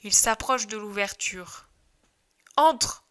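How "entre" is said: high, loud urging shout; loud eager "go in"; urgent push. Acted. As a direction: shove him in with your voice. Shepherds push each other in.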